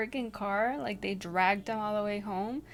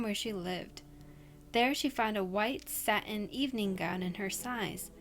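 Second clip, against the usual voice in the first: steady storyteller voice, reading a scary tale; spooky story reading. Acted. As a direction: read it like a campfire ghost story.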